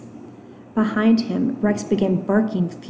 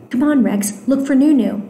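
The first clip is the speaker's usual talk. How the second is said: urging; 4 semitones higher, 4 dB louder than usual. Acted. Boy urging dog to search.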